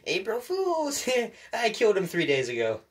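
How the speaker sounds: high, wailing put-on cartoon voice; imitation of hammed-up fake crying; mock fake crying. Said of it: "then Toad starts fake crying".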